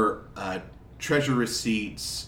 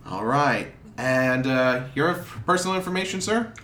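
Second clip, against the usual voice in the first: clerk; 2 semitones higher than usual. Acted. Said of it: "He says".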